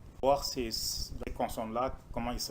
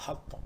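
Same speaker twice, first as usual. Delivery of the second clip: "to" pressed harder than "Ha"; stress on to; 4 dB quieter than usual. Shown as a demonstration. Teacher shows the class which syllable to stress, leaning on it. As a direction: lean on "to". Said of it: "on insiste sur le to".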